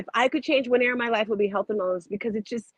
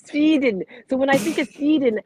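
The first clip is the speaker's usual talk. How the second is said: excited; 5 semitones higher, 5 dB louder than usual. Real, not acted. Host gushes about Sweden.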